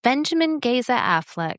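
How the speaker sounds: sweet sing-song hotel welcome voice; princess voice. Shown as a demonstration. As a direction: say the name like a gentle hotel greeting. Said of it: "Say it again".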